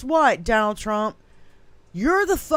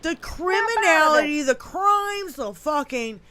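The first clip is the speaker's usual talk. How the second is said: cracking rant; 2 semitones higher than usual. Real, not acted. Ranting, voice cracks.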